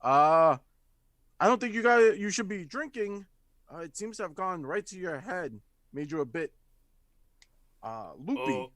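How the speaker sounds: gently worried, unsure what she saw; lightly voiced bewildered barkeep; confused bartender. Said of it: "looking at the other goblin and goes".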